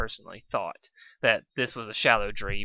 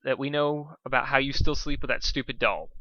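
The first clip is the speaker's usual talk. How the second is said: loud, high threatening rant; bossy threat from a little dragon; 4 semitones higher, 3 dB louder than usual. Acted. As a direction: lay down the law, louder and higher. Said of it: "threatened Spike".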